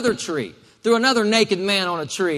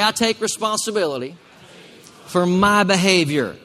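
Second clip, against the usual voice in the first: lead the congregation; 4 dB louder than usual. Shown as a demonstration. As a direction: call it out for the church to repeat. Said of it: "everybody say it with me".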